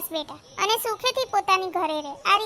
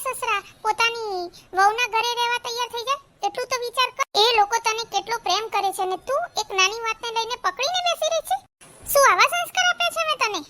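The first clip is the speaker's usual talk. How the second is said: scolding mother; 3 semitones higher than usual. Acted.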